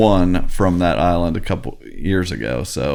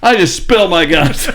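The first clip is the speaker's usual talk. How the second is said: high, loud panicked confession; freaking out; 9 semitones higher, 4 dB louder than usual. Retold or imitated. Player confessing everything to Boston Rob, mock panic. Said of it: "the guy just freaks out".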